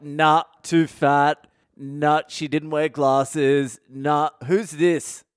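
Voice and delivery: slow, bored rejections one by one; family checking coffins like goods at a market; dismissive sorting. Retold or imitated. Rejecting bodies box by box.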